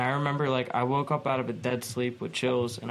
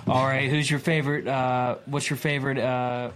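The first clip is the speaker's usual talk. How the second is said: Step Brothers quote; 4 dB louder than usual. Retold or imitated. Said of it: "that scene in Step Brothers where they're like".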